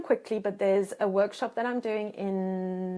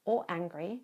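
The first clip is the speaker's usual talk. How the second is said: calm reassurance. Shown as a demonstration. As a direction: soothe them, take your time. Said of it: "So you say".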